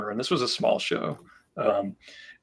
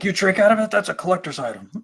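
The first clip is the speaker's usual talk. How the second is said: higher, louder retold incredulous question; shocked disbelief; 8 semitones higher, 5 dB louder, faster than usual. Retelling a collector's reaction to drinking from the cup, incredulous. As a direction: mimic an aghast collector.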